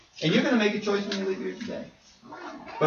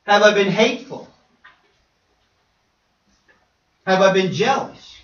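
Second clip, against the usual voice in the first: impassioned questions; 3 semitones higher, 7 dB louder than usual. Retold or imitated. Retold emotional self-questioning.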